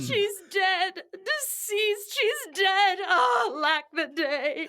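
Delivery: loud crying lament; keen over her; grieving cry. Acted. Nurse telling Capulet, crying in grief.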